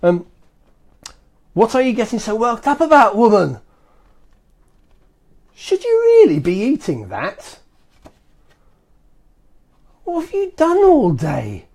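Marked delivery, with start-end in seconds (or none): 1.5-11.7 mock risky husband. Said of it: "So this is what you're gonna say".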